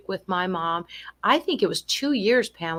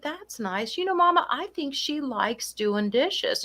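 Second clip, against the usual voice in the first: soothing agreement; 5 semitones higher than usual. Retold or imitated. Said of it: "And I said".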